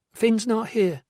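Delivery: weak, unconvinced woman's denial; unconvincing denial. A narrator's reading. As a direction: say it with no conviction at all. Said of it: "with no conviction whatsoever".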